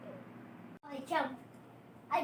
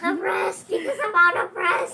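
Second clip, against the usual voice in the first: laughing; 4 dB louder than usual. Real, not acted. Kid laughs while breathless.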